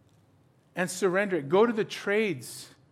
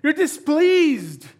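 displeased; 7 semitones higher, 5 dB louder, much slower than usual. Shown as a demonstration. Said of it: "What does that mean?".

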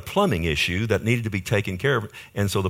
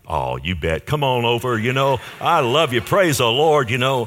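louder, overly bright welcome; put-on cheerfulness; 3 semitones higher, 6 dB louder than usual. Pastor welcoming a friend on the phone, hammed-up cheer. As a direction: sound delighted though he isn't. Cheerful reply hiding frustration.

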